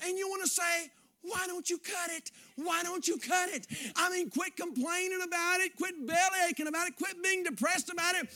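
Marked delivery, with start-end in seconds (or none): 1.2-3.7 exasperated retort. Pretend. Preacher firing back at complainers, exasperated shout. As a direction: throw the question back at them.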